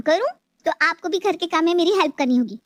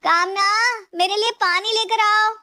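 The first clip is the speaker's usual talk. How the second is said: calling out; 4 semitones higher than usual. Acted. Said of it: "आवाज देती है".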